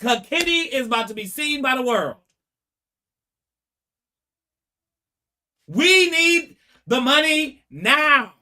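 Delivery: mock panic, pressing for the loan now; urgent pleading. Parents begging the bank for a loan, loud mock urgency.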